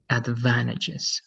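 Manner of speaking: slow "advantages", ending clearly in -jes; plural ending jes. Shown as a demonstration. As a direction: draw out "advantages" as ad-VAN-a-jes. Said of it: "it's jes".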